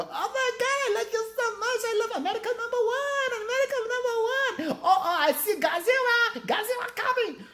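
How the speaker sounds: squealing very high, fast, giggling mock accent; hammed-up Asian accent. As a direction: go way over the top, laughing as her. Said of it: "waiting for her to go".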